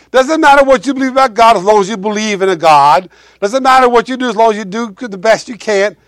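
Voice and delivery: dismissive crowd quote. Retold or imitated. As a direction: brush it off like a careless know-it-all. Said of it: "people want to say things like".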